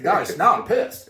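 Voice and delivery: hammed-up declaration of being fed up; retold anger. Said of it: "I was like".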